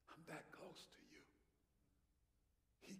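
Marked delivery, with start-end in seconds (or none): 0.1-1.2 soft, intimate murmur; hushed, near whisper. Acted. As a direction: say it softly, right up close. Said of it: "He whispers to us".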